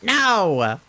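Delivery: high, loud no into a whine; dismayed wail. Real, not acted. Streamer whose funny-number egg failed, wailing in dismay. Hoped-for egg is not shiny.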